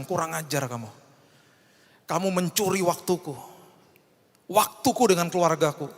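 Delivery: retold anger. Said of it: "saya marah sama iblis".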